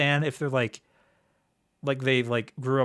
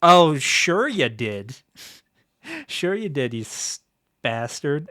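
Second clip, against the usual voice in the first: sarcastic; 5 dB louder, slower than usual. Retold or imitated. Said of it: "Estelle's like".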